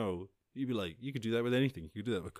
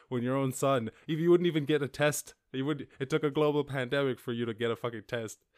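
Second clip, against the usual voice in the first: louder, higher, fed-up venting; exasperated rant; 6 semitones higher, 7 dB louder than usual. Real, not acted. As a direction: vent the frustration at dad. Venting at father.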